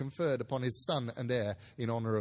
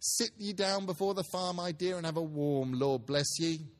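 a mother asking where everyone is; Mrs Cratchit's voice; 3 semitones higher than usual. Acted. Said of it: "said Missus Cratchit".

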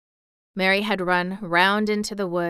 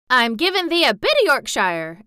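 put-on girl crowing in broad Yorkshire, louder; triumphant Yorkshire; 5 semitones higher, 7 dB louder than usual. A narrator's reading. Mary teasing Colin, triumphant broad Yorkshire. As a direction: tease him proudly in Yorkshire. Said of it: "answered Mary triumphantly".

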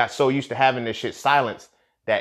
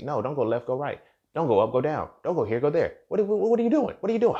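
mock nagging woman; 2 semitones higher than usual. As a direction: play the backseat driver getting shrill.

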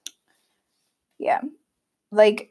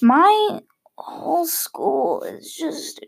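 mock cry; 7 semitones higher, slower than usual. Mock despair over school.

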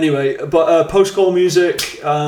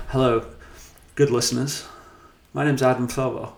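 calm announcer; 3 semitones lower, 6 dB quieter than usual. Pretend. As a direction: soothe the listeners like an old wireless host. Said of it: "just like".

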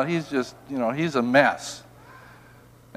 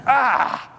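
acted cry of hurt, pitched up; pained groan; 7 semitones higher than usual. Grace growing inside and it was hurting, acted pained cry. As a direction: let out a mock agonized "ah". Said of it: "and it was hurting".

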